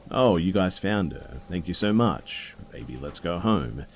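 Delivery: mock grateful boyfriend pretending to be calm; fake friendly drunk. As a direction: play nice while hiding anger. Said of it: "He was trying to act like he wasn't angry".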